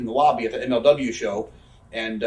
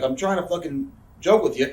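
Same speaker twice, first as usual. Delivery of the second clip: higher, protesting retold voice; mock exasperated; 4 semitones higher, 3 dB louder than usual. She tells him it was a joke, mock exasperated. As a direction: imitate her exasperated protest. Acted backstage quarrel, her protest.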